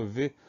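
V as a sustained buzzing consonant, no vowel; isolated V sound. Shown as a demonstration. Teacher showing pupils the word's first sound, isolated V sound. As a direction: say the sound of V, not the letter's name. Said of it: "pour avoir le son V".

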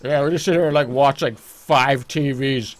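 bored mall guard. Pretend. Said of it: "This is just the bored security guard game".

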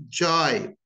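"jibe" cut short in the American way; American pronunciation. Shown as a demonstration. Teacher showing learners the American accent. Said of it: "Notice the difference".

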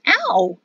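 short mock cry of pain; brief "ow" of surprise; pained yelp. A narrator's reading. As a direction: yelp as if stepped on. Girl's toes stomped on.

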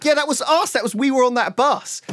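high, bright laughing owning up; sheepish admission. Retold or imitated. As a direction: confess it with a guilty grin. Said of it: "And we were like".

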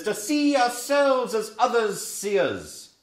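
high, slow Scottish recital; Scottish recitation. Retold or imitated. Teacher quoting Burns in a Scottish lilt. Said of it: "he says".

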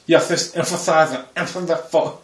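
a mock laid-back star voice saying the phrase; laid-back Christian Bale drawl. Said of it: "Christian Bale when he talks laid back".

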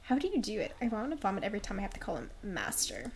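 lightly done New York-British mix; a touch of Brooklyn in a theatrical voice; Brooklish accent. Acted. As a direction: gripe to a friend in a muddled Brooklish accent. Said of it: "Brooklish and from New York now".

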